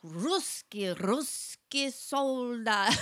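put-on drawn-out toddler call in Russian; little Russian boy. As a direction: imitate an excited small boy calling out. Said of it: "the little boy is like".

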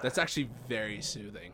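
soft, half-whispered approval; hushed, soothed murmur; soothed reaction. Retold or imitated. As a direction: say it softly, as if lulled. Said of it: "I'm like".

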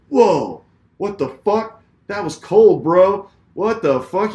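imitated outrage. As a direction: act out an onlooker appalled for you. Bystander's outraged reaction, acted out.

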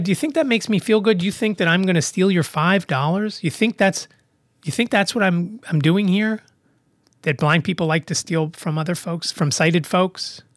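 affronted, incredulous challenge; really mad. Retold or imitated. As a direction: fire off accusing questions in mild outrage. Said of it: "I was really mad".

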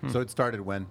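talking with a mouth full of bread; eating bread between words; chewing while talking. Real, not acted. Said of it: "he can't talk 'cause he's eating bread".

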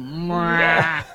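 smack the lips like a comic warming up. Retold or imitated. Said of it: "went out and went".

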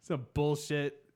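loud, high-pitched griping demon; angry demon. Acted. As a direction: complain loudly like a swindled demon. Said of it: "demons are probably so angry".

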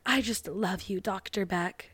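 mock soft whisper. Sophie whispers to Doctor Beck while hugging, soft. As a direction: hush it into his ear. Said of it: "she weirdly whispers in his ear".

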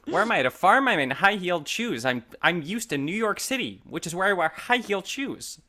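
Jennifer Aniston impression. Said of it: "that's exactly Jennifer Aniston".

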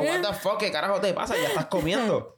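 high baffled outburst; exasperated disbelief. Retold or imitated. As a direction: react as a confused husband. (incredulidad exasperada y aguda)

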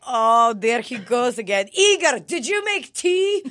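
high, loud, cheery mom; a hint of the sweet-asking mother; lightly voiced mom. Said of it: "she's like".

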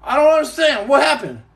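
retold mock-bewildered denial; playing dumb. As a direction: pitch it up like you have no clue. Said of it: "I said".

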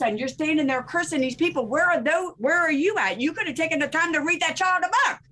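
indignant rant. Real, not acted. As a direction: build the disbelief to a high peak. Indignant rant about Christians.

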